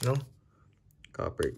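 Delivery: ordinary delivery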